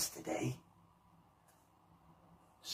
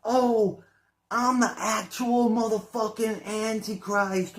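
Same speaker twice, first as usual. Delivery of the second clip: much higher, louder mock voice of the interviewee; mocking parrot; 9 semitones higher, 5 dB louder, slower than usual. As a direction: ham up the quote to ridicule it. Exaggerated mock quote.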